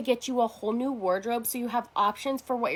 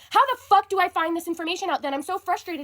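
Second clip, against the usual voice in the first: exasperated; 6 semitones higher, faster than usual. Real, not acted. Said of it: "I'm so beyond angry right now".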